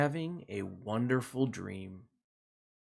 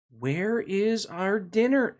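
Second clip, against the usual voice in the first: whiny hungry cats; 7 semitones higher, slower than usual. Acted. Cats voiced in children's story.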